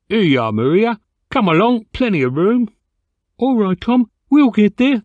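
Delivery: calling out loudly across the platform, voice pitched high; shouting. A narrator's reading. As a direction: yell to your companion over the crowd. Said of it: "they'd shout".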